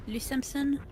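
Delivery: Le Simpson in a hammed-up French accent; mock French accent. Player joking around on stream, mock French accent. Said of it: "you have to use a French accent".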